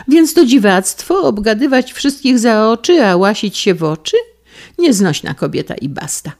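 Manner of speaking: high, loud indignant outburst; a wife snapping at her husband, high and loud. Acted. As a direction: shoot back in outrage. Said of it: "zawołała żona".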